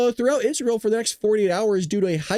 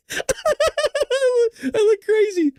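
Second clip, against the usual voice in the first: high, loud laughing squeal; cracking up, voice shooting up; 3 dB louder than usual. Real, not acted. Telling viewers about laughing alone in the kitchen, real laughter. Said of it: "I was laughing just like this".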